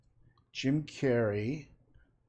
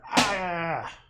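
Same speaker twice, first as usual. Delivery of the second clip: frustrated yell; 6 semitones higher, 3 dB louder than usual. Real, not acted. Frustrated searching for black paint.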